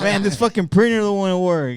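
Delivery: high, loud, frustrated complaining; exasperated whine. Retold or imitated. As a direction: whine about the broken printer. Retelling his own complaint call.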